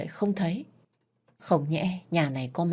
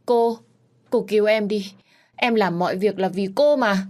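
higher, louder begging; cling to her and plead; desperate plea; 5 semitones higher, 5 dB louder than usual. Acted. Maid clutches her mistress's legs begging for rescue, high and loud.

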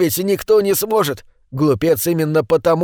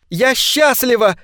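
higher, slow happy cry; joyful cry; 8 semitones higher, slower than usual. A narrator's reading. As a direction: shout out your joy. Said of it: "закричала Наташа". (радостный возглас)

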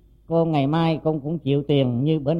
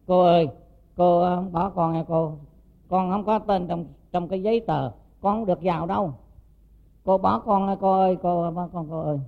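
higher, pleading child's wail, lightly voiced; imitating a crying child; 3 semitones higher than usual. Little girl begging her aunt not to leave her, mock crying plea. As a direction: beg like an abandoned little girl. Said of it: "nó khóc".

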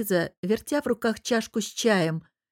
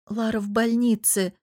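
ordinary delivery

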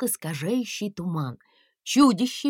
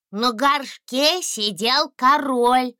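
blurted out; 5 semitones higher, 5 dB louder, slower than usual. A narrator's reading. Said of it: "брякнул дракончик".

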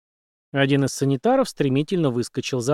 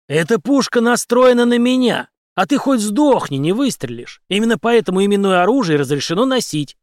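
louder, higher harsh mockery; hard smirk; 7 semitones higher, 5 dB louder than usual. A narrator's reading. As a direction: sneer it coldly. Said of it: "жёстко усмехнулся Генри". (Генри жёстко насмехается, громко)

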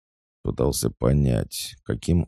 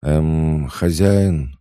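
higher, louder agitated voice; anxious calling; 6 semitones higher, 6 dB louder, much slower than usual. A narrator's reading. Awakened she-wolf calls to her master, anxious. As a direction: call out uneasily for attention. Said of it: "раздался взволнованный голос".

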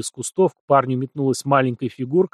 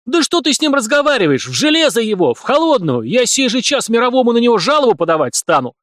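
much higher, louder yelling demand; screaming wail; 10 semitones higher, 5 dB louder than usual. A narrator's reading. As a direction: scream for his arrest. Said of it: "снова завопил".

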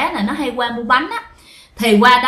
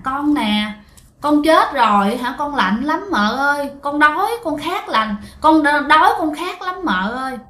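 put-on child ghost voice; 4 semitones higher than usual. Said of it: "bả cứ như một cái đứa con nít".

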